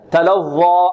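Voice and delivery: تلظى cut off at the end by a glottal stop; wrong final hamza. Shown as a demonstration. Tajweed teacher showing a mistake, hamza ending on تلظى. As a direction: close the last alif of تلظى with a hamza. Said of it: "أن نختمها بهمزة".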